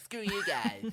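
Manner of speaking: high-pitched cartoon character voice. Comparing an actor's accent to a cartoon character: Eric Cartman voice. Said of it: "It sounds a bit like Eric Cartman".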